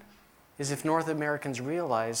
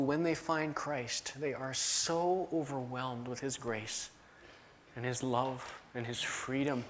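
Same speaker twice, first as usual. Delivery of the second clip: slow, softer, tender; 5 dB quieter than usual. Real, not acted. Preacher telling congregation of grace, slow tender softness. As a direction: let it soften as if touched by grace.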